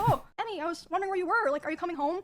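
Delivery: imitating a man who turns instantly nice; sudden sweet tone. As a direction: switch to sugary innocent concern. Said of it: "deflated and changed his tone".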